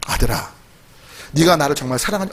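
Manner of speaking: low, soft voice of the Spirit; gentle divine voice. Retold or imitated. The Spirit speaking softly to the rich man, low gentle voice. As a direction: speak as God calling his son tenderly, softly. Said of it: "성령님의 음성이 들리는 거예요".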